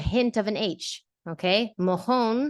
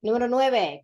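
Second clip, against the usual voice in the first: announcing question; 4 semitones higher, 4 dB louder than usual. Real, not acted. Quiz host announcing question.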